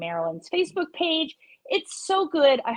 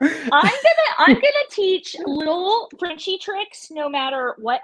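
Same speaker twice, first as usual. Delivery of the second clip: laughing; 8 semitones higher, 5 dB louder than usual. Real, not acted. Teasing about French term.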